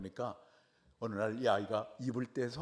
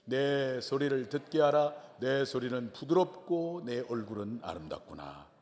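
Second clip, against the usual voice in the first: scripture reading; slower than usual. Shown as a demonstration. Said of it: "본문 말씀 가운데 또 말씀을 보겠습니다".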